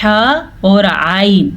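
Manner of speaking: "ہا" and "عین" slow, from mid-throat; mid-throat letters. Shown as a demonstration. Teacher pairs the mid-throat letters, careful "ہا" and "عین". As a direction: make "ہا" and "عین" pharyngeal. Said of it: "درمیان کے حصے سے پڑھا جاتا ہے".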